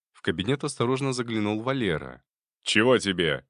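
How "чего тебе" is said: gruff angry retort; angry snap. Acted. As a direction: bark it out angrily. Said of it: "гневно воскликнул Кобылин".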